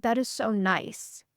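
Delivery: gently pleased, as if truly touched; touched reaction. Pretend. Imagined friend receiving a kind invite, softly warm. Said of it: "No, you'd be like".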